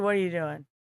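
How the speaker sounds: low, soft annoyed mutter; quiet grumble. Retold or imitated. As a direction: grumble it under your breath. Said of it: "And you're like".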